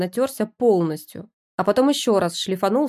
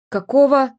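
shocked yell; 6 semitones higher, 8 dB louder than usual. Acted. Husband bursts out of bathroom.

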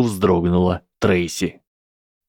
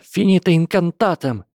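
shouted spell; 10 semitones higher than usual. Acted. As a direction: hurl the counter-spell back. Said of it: "Сьюзен Боунс в ответ крикнула". (громкий выкрик заклинания)

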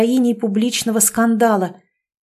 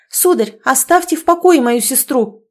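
indignant; 5 semitones higher, 5 dB louder than usual. Acted. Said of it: "опять возмутилась Оля".

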